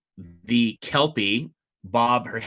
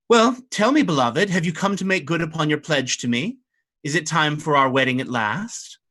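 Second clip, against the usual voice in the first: coy mermaid bride; 4 semitones higher than usual. Acted. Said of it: "she says".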